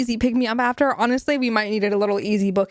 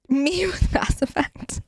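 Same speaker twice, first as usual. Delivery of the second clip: whisper; 4 semitones higher than usual. Pretend. Whispered joke.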